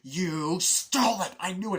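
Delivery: mock accusation. Accusing partner in retold quarrel.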